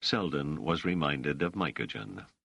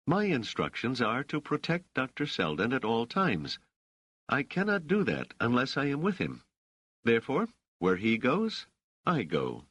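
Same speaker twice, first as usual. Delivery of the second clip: higher, clipped irritated insistence; 7 semitones higher than usual. A narrator's reading. Dors insists on staying with Selden, irritated. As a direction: lay down the law, annoyed. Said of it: "with clear irritation".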